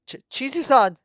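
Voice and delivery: high, loud stammered cry; startled. A narrator's reading. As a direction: cry out on snapping to. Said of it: "snaps out of whatever trance she was in".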